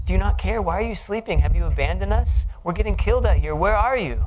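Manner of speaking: high, loud desperate yelling; frantic disciples yelling to wake Jesus; desperate cry. Retold or imitated. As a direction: shout over the storm in panic.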